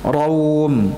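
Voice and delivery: Raum said as ra-um, two syllables. Shown as a demonstration. Teacher modelling Raum as ra-um for students. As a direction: say Raum with ra and um apart. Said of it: "Yang pertama adalah dengan raum".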